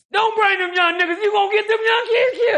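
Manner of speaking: a hint of a grumbling elder warning; old man's warning.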